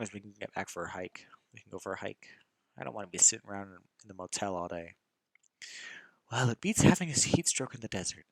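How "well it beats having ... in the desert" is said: whisper. Acted. Friend teasing about the hike.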